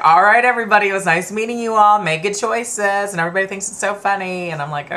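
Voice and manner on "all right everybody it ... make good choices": high, loud cheery farewell, slowing at the end; party farewell. Retold or imitated. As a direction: wave goodbye to the whole party. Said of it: "I like to be like".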